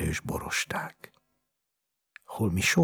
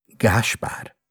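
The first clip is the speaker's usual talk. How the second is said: raised, louder call of a name; 6 semitones higher, 5 dB louder than usual. A narrator's reading. Doctor tries rousing the sick boy, calling out. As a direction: call the child to attention. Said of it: "szólt újra".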